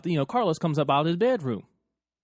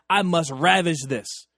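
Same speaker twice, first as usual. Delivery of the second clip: mock solemn; slower than usual.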